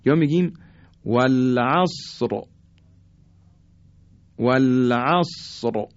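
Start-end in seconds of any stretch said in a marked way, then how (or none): 1.0-2.4 slow "والعصر" with a thick final R; heavy R. Shown as a demonstration. 4.4-5.9 slow "والعصر" with a thick final R; heavy R. Shown as a demonstration.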